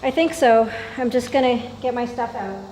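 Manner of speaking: short of breath, wheezy. Real, not acted. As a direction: talk through a tight, wheezy chest. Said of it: "and also I can't breathe".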